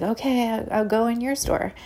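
retold timid compliance; rattled. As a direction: give in to a bully, mildly flustered. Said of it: "I was so rattled".

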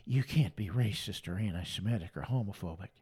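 low, soft put-on mimicry; sneering low imitation of a critic; mocking critic. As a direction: parody the churchgoers' scolding, voice dropped low. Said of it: "y'all come up to me and say".

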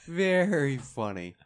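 slow, drawn-out deadpan comeback; sarcastic. Real, not acted. Downed player answering friends' teasing, sarcastic. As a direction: stretch it out, unamused.

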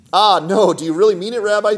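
high, loud protest; dismayed cry. Acted. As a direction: cry out in disbelief, pitch up. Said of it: "cried the man".

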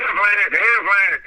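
slow, lightly quacked Affleck; a hint of a duck calling its name. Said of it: "goes around going".

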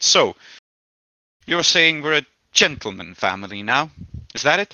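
a mother turning from tired to angry; renewed vigor and anger. Acted. Mother refusing her son's plan, a touch of anger. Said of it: "she goes from, like, tired to actually ... a bit of anger".

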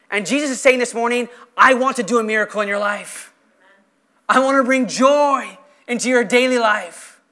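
impassioned sermon delivery; projected, heartfelt pulpit voice; earnest preaching. Real, not acted. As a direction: preach it to a full room. Preaches to the congregation.

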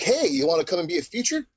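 high-pitched, quick mock invitation; imagined casting invite. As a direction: pitch it up like a chirpy imagined caller. Imagined casting call inviting the speaker.

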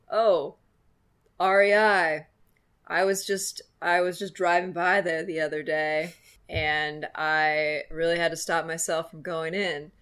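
lively shop clerk; cashier voice. Retold or imitated. Cashier voiced in retold chat.

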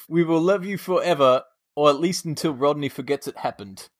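badly faked South African accent; botched South African accent. Host finishes the plea to listeners, botched South African accent. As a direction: push through a muddled South African accent. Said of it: "He sounds like a mix of Sean Connery".

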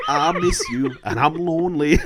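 laughing through the singer's line; laughing imitation. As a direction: giggle while mimicking it. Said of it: "I love to write it out phonetically".

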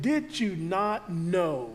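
gentle slow reproach; soft rebuke. Shown as a demonstration. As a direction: ask it slowly as a soft rebuke. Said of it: "a soft rebuke".

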